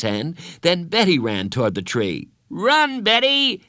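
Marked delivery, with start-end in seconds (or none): 2.5-3.6 high, loud shout; shouted cheer. Acted. Teammates shouting Betty on, loud cheer. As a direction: yell her down the yard. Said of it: "everyone except Bradley shouted".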